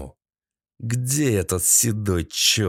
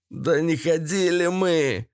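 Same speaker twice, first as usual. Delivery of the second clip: high, whining protest; pleading captive's wail; plaintive cry; 6 semitones higher than usual. A narrator's reading. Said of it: "жалобно крикнул мужчина".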